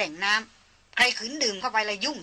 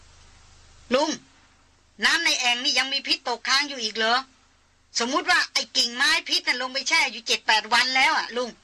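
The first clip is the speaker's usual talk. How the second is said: put-on young woman calling out; 4 semitones higher than usual. Darin calls across to old hunter.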